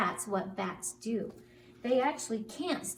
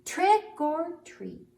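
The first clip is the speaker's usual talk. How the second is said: very high, slow sing-song call; high drawn-out spooky call; high squeaky trick or treat; 8 semitones higher, 7 dB louder, much slower than usual. Acted. Bat says trick or treat.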